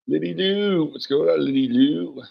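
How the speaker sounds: high, bright call-out of her name; sing-song greeting. Real, not acted. Welcoming a viewer in chat, high sing-song greeting.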